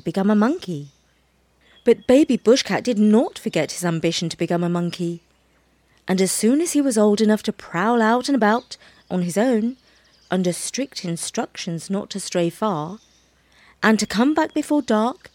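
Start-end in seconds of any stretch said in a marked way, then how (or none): none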